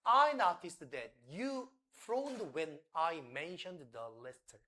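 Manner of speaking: very slow, fading at the end; slow model line. Shown as a demonstration. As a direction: spell it out slowly, trailing off. (아주 천천히, 끝은 흐리게)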